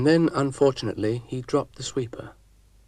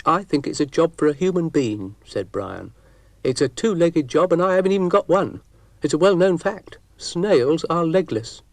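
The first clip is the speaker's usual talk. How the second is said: higher, louder indignant snail voice; fussy snail; 7 semitones higher, 8 dB louder than usual. Acted. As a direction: Brian the snail, huffy and sure of himself. Snail character Brian speaking.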